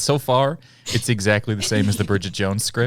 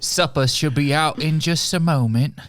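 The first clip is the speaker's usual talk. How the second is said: put-on British accent; 4 semitones higher, much slower than usual. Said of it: "burned through every accent I could do".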